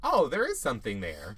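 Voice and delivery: mock a sarcastic realisation. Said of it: "she said it real sarcastic, like".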